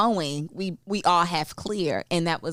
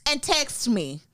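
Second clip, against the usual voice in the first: breezy brush-off; 10 semitones higher, 3 dB louder than usual. Retold or imitated. Acting out her breezy reply.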